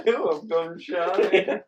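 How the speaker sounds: slow drawn-out mock echo; mocking imitation. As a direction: drag it out teasingly. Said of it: "mocking the line".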